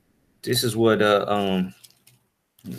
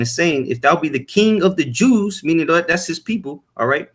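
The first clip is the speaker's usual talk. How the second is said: rising preaching fervor; 3 semitones higher than usual. Real, not acted. Preacher hammers home to the congregation that Israelites spoke Greek, building fervor.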